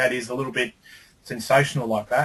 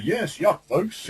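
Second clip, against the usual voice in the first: hyped ad line; 5 semitones higher, much slower than usual. Shown as a demonstration. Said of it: "and not as".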